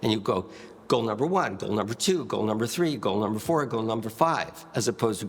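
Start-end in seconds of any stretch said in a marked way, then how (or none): 0.9-4.7 quick list pace. Shown as a demonstration. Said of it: "pick up the pace".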